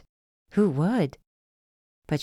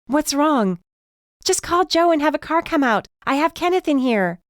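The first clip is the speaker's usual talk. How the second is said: urgent; 10 semitones higher, 4 dB louder than usual. A narrator's reading. Urgent exchange on the stairs.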